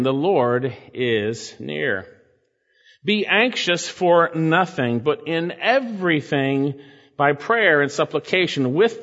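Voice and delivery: slow, solemn reading of scripture; measured sermon reading voice. Acted. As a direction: read the passage with reverence.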